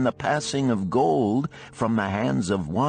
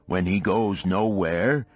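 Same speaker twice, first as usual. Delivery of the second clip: weary ox; 5 semitones lower than usual. Acted. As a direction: groan out the ox's hard lot. Narrator voices the ox.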